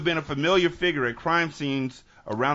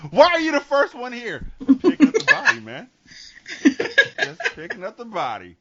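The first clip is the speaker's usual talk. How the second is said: high, loud, lightly hammed-up voice; mock questioning exchange; 10 semitones higher, 6 dB louder than usual. Cop questions coroner's man at the death scene, mock questioning. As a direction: play it up in a raised voice.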